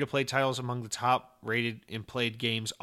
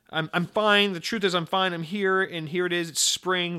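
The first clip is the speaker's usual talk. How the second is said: lightly voiced Sakura; 4 semitones higher than usual. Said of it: "and she explains".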